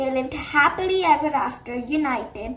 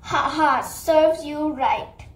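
gloating villain; slower than usual. Acted. Shadow gloats.

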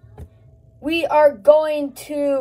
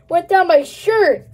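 louder, disgusted repeat; grossed out; 4 semitones higher, 4 dB louder than usual. Real, not acted. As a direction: say it with a yuck.

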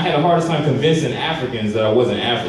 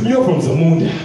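put-on confident African accent, louder; the friend insists, in a mock African accent; 3 semitones higher, 3 dB louder than usual. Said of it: "he comes up".

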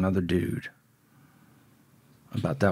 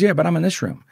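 put-on raised, louder voice for the kid; retold naive kid; 9 semitones higher, 7 dB louder, faster than usual. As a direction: lightly imitate a young inmate objecting. Kid's reply in retold dialogue.

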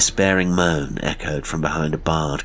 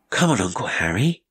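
put-on a boy calling out, higher, rising; eager boy; 4 semitones higher than usual. Boy calls his uncle into the library, eager. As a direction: call out eagerly like a child. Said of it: "he cried".

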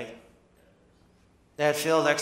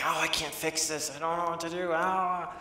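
higher-pitched imitation of helpless fretting; mock frustration; 4 semitones higher than usual. People talking about what they can't fix, mock frustration. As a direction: lightly whine it in frustration. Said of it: "they're just so frustrated".

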